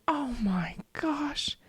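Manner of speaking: breathless, slow whisper; imitating a man's hushed shock; whispered realization. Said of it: "he's like".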